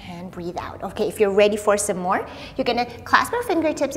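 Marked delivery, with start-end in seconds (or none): 0.1-0.8 softer, falling breath-out cue; soft exhale cue. Shown as a demonstration. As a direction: let the voice fade out with the breath. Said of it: "yoga breath cue".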